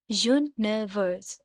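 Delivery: "यूनिवर्स" slowly split as यू-नि-वर्स; syllable by syllable. Shown as a demonstration. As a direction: break "यूनिवर्स" into three slow beats. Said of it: "इनको टुकड़ों में बांटेंगे". ("यूनिवर्स" टुकड़ों में, धीमे-धीमे)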